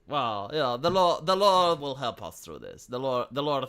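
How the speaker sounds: a hint of a serene preacher, trailing away; calm pious Amish. Amish man reassuring the YouTuber about the Lord, lightly voiced and fading. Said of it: "the Amish were like".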